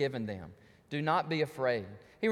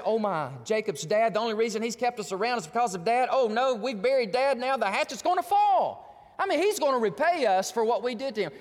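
slightly raised, worried brothers' voice; mock alarm; 2 semitones higher, 4 dB louder than usual. Brothers fearing Joseph will repay them, mock alarm. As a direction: act out dread with a touch of panic.

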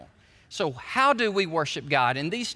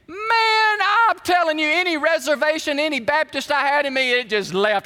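high, loud, fired-up storytelling; excited retelling; 7 semitones higher, 5 dB louder than usual. Retold or imitated. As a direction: relive the winning moment at full energy. Reliving the grand slam celebration.

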